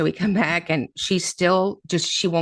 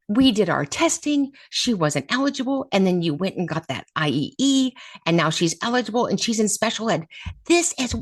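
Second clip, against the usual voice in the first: yelling teacher; 5 semitones higher than usual. Retold or imitated. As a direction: replay her angry yell, pitched high. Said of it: "I mean, she's yelling".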